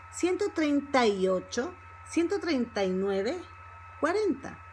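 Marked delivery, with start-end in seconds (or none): 0.1-3.4 "treinta y" run together without a break; linked-up fast speech. Shown as a demonstration. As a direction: glide from the a straight into y in "treinta y". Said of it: "when we speak fast".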